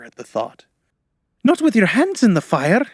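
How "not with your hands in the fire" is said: high, loud scream of alarm; screamed protest. A narrator's reading. Girl horrified at his hand in the fire, screaming. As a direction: scream it in horror at what is asked. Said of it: "she screamed".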